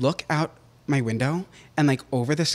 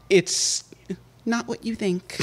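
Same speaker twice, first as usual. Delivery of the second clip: whispering; 6 semitones higher, slower than usual. Pretend. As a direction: whisper it like a secret. Secretive aside to listeners.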